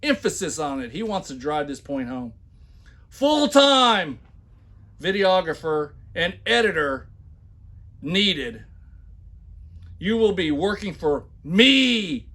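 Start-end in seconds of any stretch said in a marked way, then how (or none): 3.1-12.3 loud, high, hammed-up shouting of the ad; mock all-caps shouting. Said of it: "when I put heavy accents and shout".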